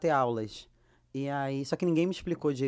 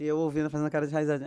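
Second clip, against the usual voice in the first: ordinary delivery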